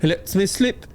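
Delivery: a playful hint of the cat talking. Pet cat boasting to the listeners, lightly voiced.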